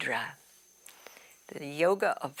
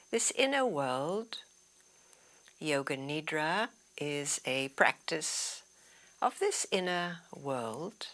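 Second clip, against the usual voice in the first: guided meditation. Acted. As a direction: guide them gently inward, leaving long pauses. Guides into inner world.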